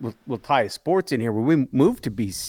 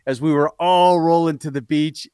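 normal talking voice

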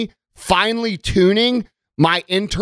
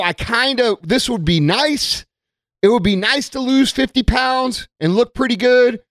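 higher, dreamy half-hearted musing; wishy-washy wish; 7 semitones higher than usual. Retold or imitated. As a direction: toss it off like a lazy daydream. Half-hearted wish versus real goal.

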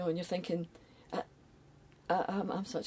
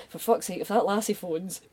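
louder, mock-annoyed dismissal; mock exasperation; 3 semitones higher, 8 dB louder than usual. Imagined company fed up with a caller, mock exasperated. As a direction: imitate a fed-up boss, half laughing.

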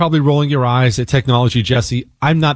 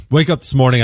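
ordinary talk, nothing marked

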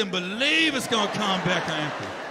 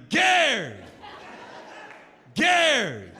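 calling out; 3 semitones higher, much slower than usual. Retold or imitated. Clerk calling to Gary at the car, mock yell. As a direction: call out his name laughing. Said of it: "she started yelling at me".

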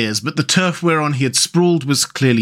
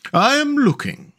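voiced Mole; 12 semitones higher than usual. A narrator's reading. Mole answers rat in story.

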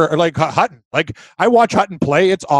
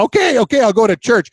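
mock tearful; 5 semitones higher than usual. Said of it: "I got tears coming down".

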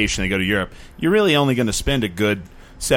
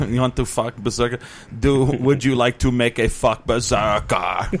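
laughing quote. Retold or imitated. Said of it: "He says".

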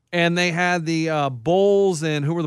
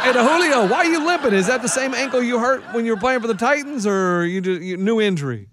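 teasing heckler; 4 semitones higher than usual. Pretend. Heckling fake vendor Julio.

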